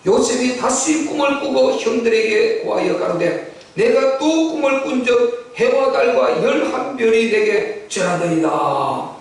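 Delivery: slowing verse reading with drawn ending; scripture reading. A narrator's reading. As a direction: intone the verse formally, stretching the close. (끝을 길게 끄는 성경 봉독)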